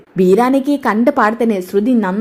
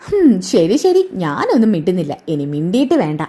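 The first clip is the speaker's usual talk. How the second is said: sulky huff; 3 semitones lower than usual. Retold or imitated. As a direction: drag it out, then sink away sulking. Shruti sulks after being told off.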